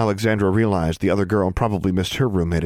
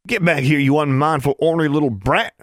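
high, forceful country scolding; angry shout to a little sister, pitched up; angry call; 7 semitones higher, 4 dB louder than usual. A narrator's reading. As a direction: call a naughty child back angrily. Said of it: "Benjamin called angrily".

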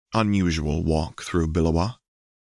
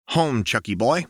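higher, playful and teasing; lightly voiced Jinx; 5 semitones higher than usual. A narrator's reading. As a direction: tease him with a grin.

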